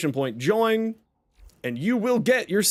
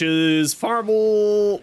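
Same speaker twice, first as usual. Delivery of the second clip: voice cracking; 3 semitones higher, 4 dB louder, much slower than usual. Real, not acted. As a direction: voice breaks on the word. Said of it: "Wow, my voice cracked there".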